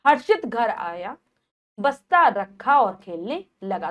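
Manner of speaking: slow reading, brief break after आया; slight pause after आया. Shown as a demonstration. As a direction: halt lightly after आया, then carry on. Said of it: "हम हल्का सा रुके हर्षित घर आया के बाद".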